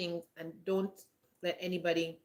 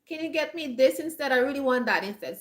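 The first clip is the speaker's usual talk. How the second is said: friend asking for a swap in a raised voice; imitating a friend; 7 semitones higher than usual. Friend asking to exchange a gift, imitated high-pitched request. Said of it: "she's like".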